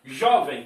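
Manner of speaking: Jovem, loud and low, with a strong jo; stress on first syllable. Shown as a demonstration. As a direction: punch the start of Jovem. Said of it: "qual é a sílaba mais forte". (Jovem com força na primeira sílaba)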